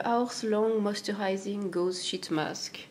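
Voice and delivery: slow, careful French-accented English on the product name; self-conscious attempt at an English accent, very slow; clumsy English accent. Real, not acted. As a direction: sound out the English name slowly in a shaky English accent. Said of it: "avec ma, mon accent pourri en plus".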